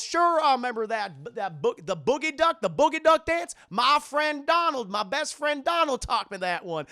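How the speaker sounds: loud, high, boisterous cartoon dad; excited Goofy. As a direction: crow proudly about an old dance. Voices Goofy recalling duck dance.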